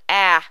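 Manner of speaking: "ah" as an isolated short A, punched out loud; short A sound. Shown as a demonstration. Teacher demonstrating the short A sound, "ah" said loud and alone. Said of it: "The short A sound".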